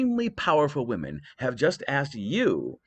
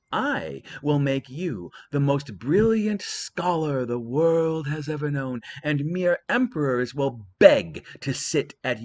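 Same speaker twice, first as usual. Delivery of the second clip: a lightly voiced, higher coaxing goddess; Athena coaxing; 4 semitones higher than usual. Athena to Paris, a lightly voiced sweet bribe. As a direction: sweet-talk him with wisdom. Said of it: "said Athena".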